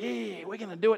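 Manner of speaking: high, loud mock cheer; fishy mates. Fish mates cheering on the plan, hammed-up eager. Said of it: "all their fishy mates are like".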